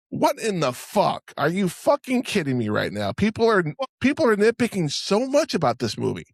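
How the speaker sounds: high, incredulous outburst; can't believe this nonsense; outraged. Real, not acted. Outraged rant at fans.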